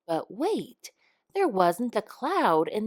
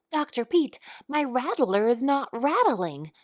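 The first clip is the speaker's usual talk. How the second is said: higher, whiny complaint with a groan in it; a snake moaning about his broken rattle; 5 semitones higher than usual. A narrator's reading. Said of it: "Jake groaned".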